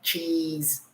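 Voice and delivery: cheese with lips spread wide in a smile, long ee; teacher showing the smiling ee; spread-lip demo. Shown as a demonstration. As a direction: smile broadly and stretch the ee of cheese. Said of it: "because you have to smile".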